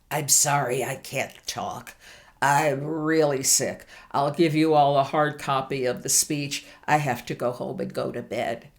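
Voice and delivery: lightly voiced feeble, sickly apology; mock sick excuse. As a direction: play it up as too ill to speak. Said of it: "dragged myself onto the stage and said".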